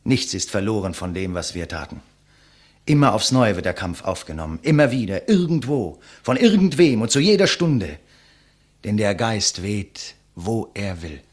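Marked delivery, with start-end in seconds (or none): 2.8-11.2 climbing higher and louder with each phrase; fervent crescendo. Acted. Condemned man proclaiming the fight never ends, building to a fervent cry.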